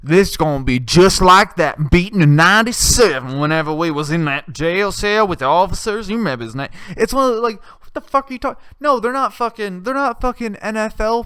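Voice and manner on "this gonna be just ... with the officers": lightly voiced redneck inmate. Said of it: "a guy who's like".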